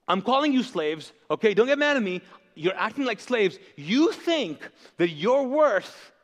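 emphatic dressing-down, played out; acted rebuke. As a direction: confront them as an exasperated apostle.

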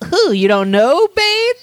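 questioning character voice, leaping high at the end; Riddler. Acted. The Riddler answering Bane with a question, in a high put-on voice. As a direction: pose it like a riddle, pitch shooting up. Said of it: "the Riddler goes".

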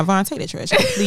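high sweet nagging request. Real, not acted. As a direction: nag him sweetly. Message to partner on podcast.

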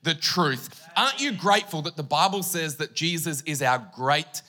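slow, musical sermon cadence; preaching over keys. Acted. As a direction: bring it home over the music. Preacher returns to message over music.

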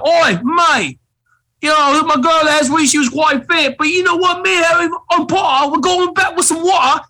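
high, hammed-up British footballer accent; mock British accent. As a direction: play a chatty London lad, pitched well up. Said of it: "and it's like".

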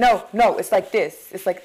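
attempted Boston accent. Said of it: "that's my best Boston accent".

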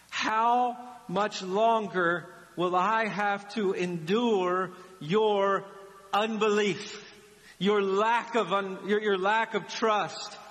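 slow, deliberate exasperation; exasperated. Acted. Jesus confronting his disciples' unbelief, exasperated. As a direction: draw out the reproach word by word. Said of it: "to being exasperated".

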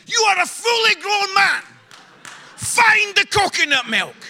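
wife yelling down the phone at her husband in Asda; exasperated wife shouting. Retold or imitated. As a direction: blast him like a fed-up wife. Wife snapping over the phone.

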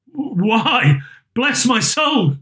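a touch of startled wonder; mild surprise. Acted. Fred startled at his uncle's visit, mild surprised cry. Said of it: "cried Fred".

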